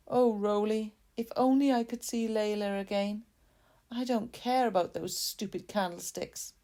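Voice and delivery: a hint of a wistful old man longing for his daughter; old man's wish. Sad old man speaks.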